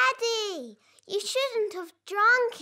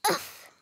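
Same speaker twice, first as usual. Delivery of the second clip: landing grunt; 7 dB quieter than usual. Retold or imitated. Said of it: "That's the sound you made as you landed".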